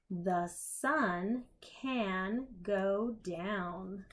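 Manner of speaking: slow picture-book reading; reading to children. Acted. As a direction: read it slowly to little ones.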